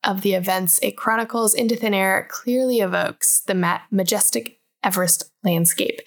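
measured book-blurb read-aloud; smooth read-out of a book summary. A narrator's reading. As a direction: read the back-cover summary evenly.

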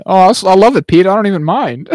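hammed-up happy imitation; retold delight. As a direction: act out over-eager, blissful agreement. Voices mind-controlled gleeful Kevin Bacon.

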